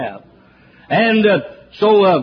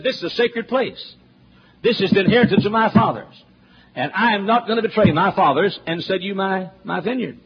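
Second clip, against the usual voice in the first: indignant Naboth; 3 semitones higher than usual. Retold or imitated. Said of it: "He said".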